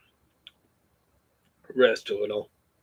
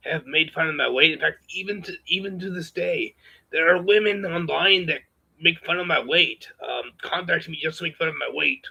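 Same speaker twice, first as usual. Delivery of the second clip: raised, strained put-on voice; put-on higher voice. Vlogger talking to viewers about women, in a strained put-on higher voice. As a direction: push the voice up higher than your own and hold it. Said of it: "I'm gonna have to break off this voice".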